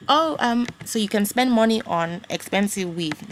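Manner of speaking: put-on auntie's African accent; imitating an African auntie. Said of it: "so I can do the African accent".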